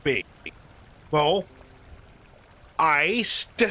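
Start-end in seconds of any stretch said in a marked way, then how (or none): 2.8-3.6 iced, ending on a clearly sounded D; iced with a hard D. Shown as a demonstration. Teaching a teammate the joke, hitting the D in iced. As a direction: land on the final D of iced. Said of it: "emphasis on the D there".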